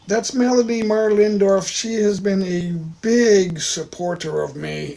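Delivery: talking while chewing; mouth full. Real, not acted. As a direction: speak through a mouthful of dates. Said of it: "sorry for talking with my mouth full".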